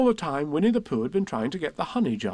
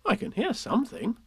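Christopher Robin; 7 semitones higher than usual. Acted. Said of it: "said Christopher Robin".

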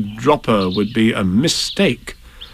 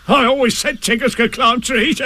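higher, bouncy character voice; raised, blustery animal character; Tigger's voice; 12 semitones higher than usual. Acted. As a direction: bluster it like a confident braggart. Tigger boasts while climbing.

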